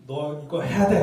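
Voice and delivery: loud, bossy parent order; scolding yell. Retold or imitated. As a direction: bark it at a teenager. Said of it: "윽박지르면".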